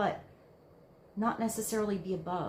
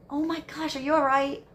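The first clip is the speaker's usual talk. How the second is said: concerned mother; 6 semitones higher, 7 dB louder than usual. Retold or imitated. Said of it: "the example ... you're nurturing".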